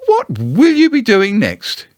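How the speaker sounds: high, slow humouring voice; Kanga's voice. Acted. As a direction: ask as if amused.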